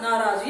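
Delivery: नाराज with a long 'naa' at the start; correct long first vowel. Shown as a demonstration. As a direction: say नाराज properly as NAA-raaj. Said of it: "सही word क्या है बच्चों?".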